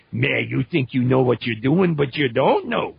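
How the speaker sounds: put-on Cajun accent, quickening toward the end; Cajun uncles. Imitating uncles back home, Cajun accent scolding. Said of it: "my uncles that I can hear them talk".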